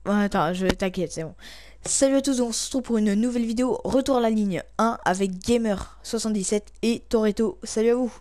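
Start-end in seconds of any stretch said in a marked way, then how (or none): 1.8-8.1 upbeat video intro; bright host greeting to viewers; youtuber intro. Acted.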